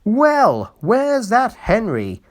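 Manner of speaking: loud, high, slow challenge; cocky engine calling out for Henry; triumphant call. Acted. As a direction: demand it with a proud crow. Engine boasting, looking for Henry.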